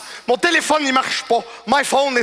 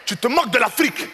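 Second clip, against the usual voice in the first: scolding customer; 3 semitones higher than usual. Retold or imitated.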